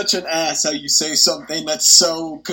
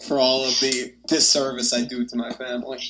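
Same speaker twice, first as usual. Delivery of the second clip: phone held away; faster than usual. Real, not acted. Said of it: "Are you talking into the phone?".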